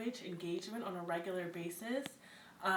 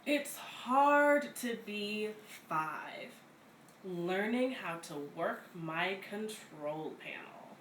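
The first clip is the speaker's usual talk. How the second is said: put-on reading to children; much slower than usual. Begins second picture book.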